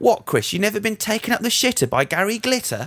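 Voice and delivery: put-on Cockney accent. Retelling what a man said back to Chris, in a Cockney accent. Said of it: "And then in a Cockney accent, he speaks".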